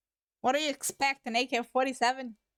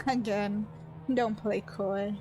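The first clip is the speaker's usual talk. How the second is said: raspy mocking voice; 3 semitones lower, slower than usual. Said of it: "I have to do a raspy, androgynous, mocking voice".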